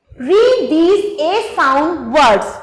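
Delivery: slow, deliberate reading of the workbook task; slow instruction read. Acted. Teacher reads the English task aloud slowly to the children.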